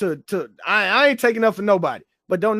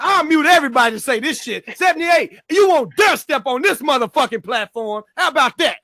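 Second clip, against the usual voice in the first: shouting challenge; 3 semitones higher than usual. Real, not acted. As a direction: shout him down, calling him out.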